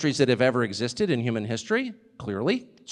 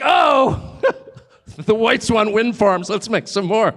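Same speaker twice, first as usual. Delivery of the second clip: loud, amused mock exclamation, slow in the middle; mocking Chinese voice; 3 semitones higher, 3 dB louder, slower than usual. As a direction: laugh at them while playing along. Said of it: "They're like".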